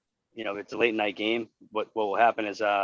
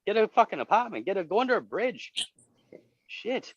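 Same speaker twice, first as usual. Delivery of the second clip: exasperated yell; 8 semitones higher than usual. Retold or imitated. Yelling at the homeless guy.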